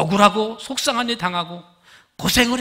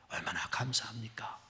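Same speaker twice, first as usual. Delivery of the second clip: much softer whispered repeat; 8 semitones lower, 16 dB quieter than usual. Real, not acted. Preacher repeating his thanks to the congregation, in a whisper. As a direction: drop to a breath on 감사합니까. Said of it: "same line repeated, whispered".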